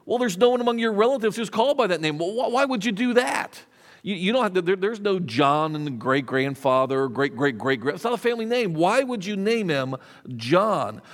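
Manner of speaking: incredulous objection. Acted. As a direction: question her choice in disbelief, pitch jumping up. Relatives object to the chosen name.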